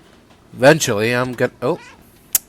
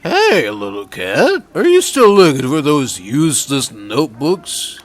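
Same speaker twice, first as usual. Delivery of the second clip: put-on grumpy old man; 3 semitones higher than usual. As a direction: scoff like a bitter old man. Voices grumpy Momo.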